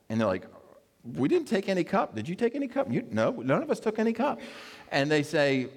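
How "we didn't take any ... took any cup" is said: indignant denial. Retold or imitated. Brothers deny stealing the cup.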